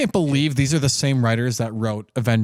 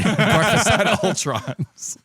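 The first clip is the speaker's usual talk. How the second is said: movie trailer voice; 7 semitones higher, much slower than usual. Pretend. Mock movie title announced.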